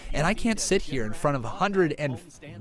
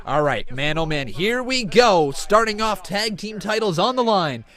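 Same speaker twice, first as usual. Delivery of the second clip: excited match-opening call, higher and louder; live wrestling play-by-play; 5 semitones higher, 6 dB louder than usual. Real, not acted. Streamer calling the start of a tag title match, excited play-by-play. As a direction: open the match with rising energy.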